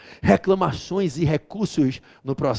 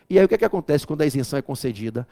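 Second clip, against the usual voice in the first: ordinary delivery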